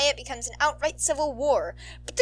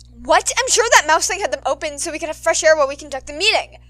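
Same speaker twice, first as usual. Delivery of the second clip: disbelieving; 6 semitones higher, 11 dB louder than usual. Acted. Board member in disbelief.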